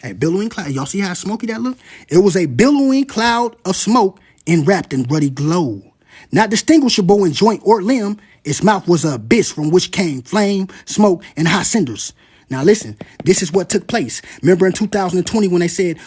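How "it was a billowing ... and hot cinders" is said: slow, weighty reading of the prophecy; dramatic scripture reading; solemn reading. Acted. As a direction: let each image land slowly. Reads from the prophecy.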